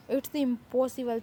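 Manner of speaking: very slow, stretched-out impossible; drawn-out disbelief. Acted. Friend refuses to believe the boy agreed, very slow. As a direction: drag it out in disbelief.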